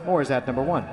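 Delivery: play-by-play. Acted. Live baseball call.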